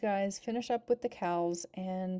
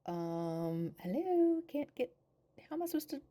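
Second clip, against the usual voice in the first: exasperated mom; 4 semitones higher than usual. Retold or imitated. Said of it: "Florence is like".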